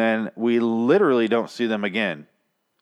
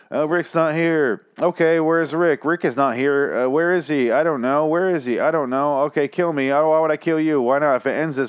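lightly raised sing-song back-and-forth dialogue; same voice for both; 3 semitones higher than usual. Retold or imitated. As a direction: play both characters in one slightly high voice. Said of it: "they're the same voice".

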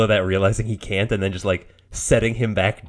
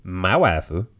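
dubbed line; 2 semitones lower, slower than usual. Retold or imitated. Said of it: "that's how they dubbed it into Japanese".

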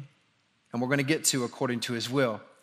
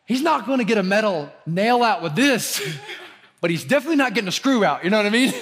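laughing; 5 semitones higher, 4 dB louder, faster than usual. Real, not acted. Laughing at son's screw.

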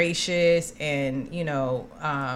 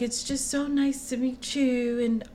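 gushing fan; 5 semitones higher, 4 dB quieter than usual. Retold or imitated. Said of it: "she's like".

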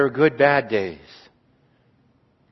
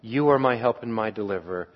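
You are my help and my deliverer, repeated much softer; soft affirmation; 4 semitones lower, 6 dB quieter than usual. Shown as a demonstration. Psalmist affirming trust in God, soft prayerful repeat. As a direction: say it gently, as a private prayer. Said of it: "second confident affirmation".

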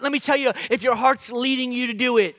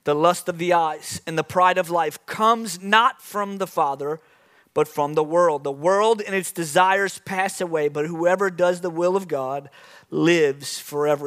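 scripture reading; 3 semitones lower than usual. Acted. Preacher reading scripture to congregation, measured. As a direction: read it to the church, unhurried.

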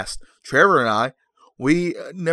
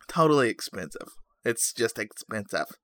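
softer, lightly put-on voice; silly made-up voice; 3 semitones lower, 6 dB quieter than usual. Host joking about pricey game, silly made-up voice. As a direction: slip into a daft half-impression. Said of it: "I don't know what voice that is".

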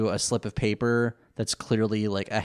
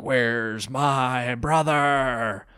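angry Kaiba; much slower than usual. Retold or imitated. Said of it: "he's like".

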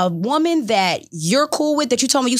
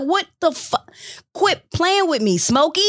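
high, exasperated mock telling-off; exasperated scolding; 8 semitones higher than usual. Girlfriend scolds her ex Smokey, high and exasperated. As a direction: scold him like he's lost his mind. Yelling at ex in story.

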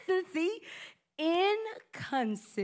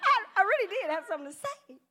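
laughing deflated; 4 semitones higher, faster than usual. Retold or imitated. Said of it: "you be like".

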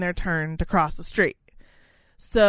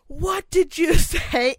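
higher, slow, laughing through it; mock indignant old man; 7 semitones higher, 3 dB louder, slower than usual. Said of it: "he's like".

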